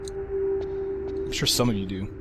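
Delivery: very high, slow squeaky voice; teasing squeak. Acted. Gamer teasing viewers in a high, slow squeaky voice. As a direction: squeak it out like a cheeky cartoon.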